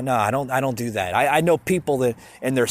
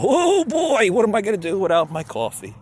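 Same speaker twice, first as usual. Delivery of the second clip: high, loud whiny panic over missing coffee; mock far-left panic; 8 semitones higher, 4 dB louder than usual. Podcaster mocking the far left without coffee, high whiny panic. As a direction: ham up a frantic liberal losing it. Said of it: "I get like the far left does".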